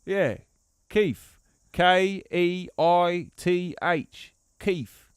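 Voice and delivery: playing a bloke from England, lightly done; English accent. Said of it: "I just start calling myself Keith".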